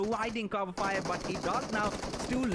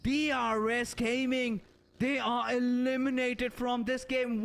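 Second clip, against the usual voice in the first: esports caster; 5 semitones higher, 3 dB louder than usual. Real, not acted. Clutch moment, live play-by-play.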